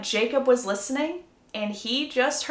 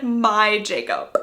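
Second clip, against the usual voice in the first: slow, stretched-out words; drawn-out quote; much slower than usual. Retold or imitated. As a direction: linger on each word. Quotes what she said asleep.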